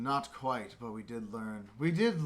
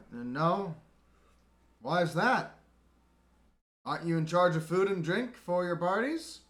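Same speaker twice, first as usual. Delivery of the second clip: louder, higher demanding lieutenant; demanding officer; 6 semitones higher, 8 dB louder than usual. Acted. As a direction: grill the underling about the ale. Lieutenant interrogating Twit.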